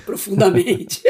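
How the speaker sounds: mock deep male voice; whispery mock echo; imitating male voice. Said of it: "E a voz masculina". (imitando a voz masculina)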